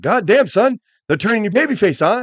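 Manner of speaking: Stone Cold Austin. Retold or imitated. Austin pulls Foley aside backstage, emphatic imitation. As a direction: imitate a wrestler razzing his buddy.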